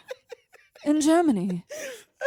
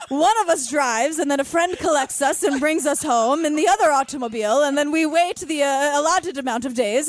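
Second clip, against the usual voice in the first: mimicking a prim older lady telling a story; imitating Patty. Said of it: "but she's like".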